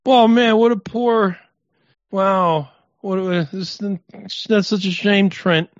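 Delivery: high, loud sarcastic sympathy; mock pity. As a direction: fake sorrow, dripping with sarcasm. Fake sympathy for a musician.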